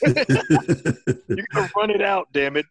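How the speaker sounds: high, loud, slow coach yell, laughing; barking gym coach. Retold or imitated. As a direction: bark at the team to run it out. Zombie coach yelling.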